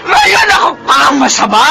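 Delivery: sobbing, screaming breakdown; exhausted mother breaking down at her children; crying shout. Acted. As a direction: scream it out through tears, voice cracking high.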